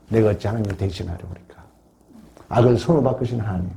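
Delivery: low, soft, quickened retelling; subdued Joseph, only a touch of sorrow; retold tearful reply. Joseph answering his brothers as he weeps, understated sorrow. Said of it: "요셉이 우는 거예요".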